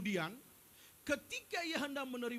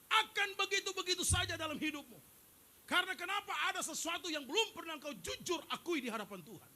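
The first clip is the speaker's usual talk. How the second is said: normal talking voice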